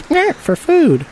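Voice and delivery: very high, drawn-out creature voice; Stripey. Acted. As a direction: squeal it slowly with a nasty little "nyeh". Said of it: "And then Stripey says".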